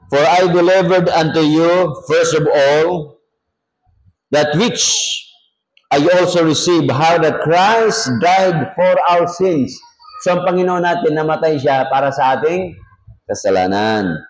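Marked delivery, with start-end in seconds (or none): 0.1-9.7 slow, deliberate Bible reading; measured pulpit reading; scripture reading. Acted. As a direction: read the verse out firmly, phrase by phrase. Reads the Bible verse aloud.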